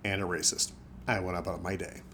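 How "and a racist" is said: softer, retold muttered insult; murmured under breath. Fox privately judging the person who insulted him, murmured under his breath. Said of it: "me murmuring under my breath".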